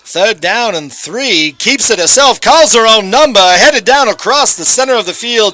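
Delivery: put-on a touch of old newsreel announcer; 1930s announcer voice. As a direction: call it like a vintage radio broadcast. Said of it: "All right, one more time".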